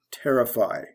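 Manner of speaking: "terrify" stressed on TER; teacher's model of "terrify", beat on TER; stress on first syllable. Shown as a demonstration. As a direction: lean on the opening TER of "terrify". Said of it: "stress goes from the first".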